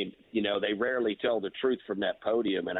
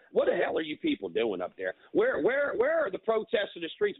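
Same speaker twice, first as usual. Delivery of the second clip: higher, incredulous, what-the-hell pitch; exasperated outburst; 9 semitones higher than usual. Real, not acted. Caller exasperated at New Yorkers, raised incredulous pitch. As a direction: demand answers from the whole city.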